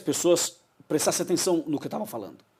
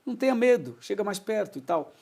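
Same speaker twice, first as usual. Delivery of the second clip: affectionate invitation; 6 semitones higher than usual. Shown as a demonstration. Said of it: "É um carinho".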